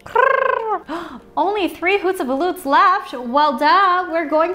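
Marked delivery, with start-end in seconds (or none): 0.1-0.8 kitty purr. Pretend. Playing the cat.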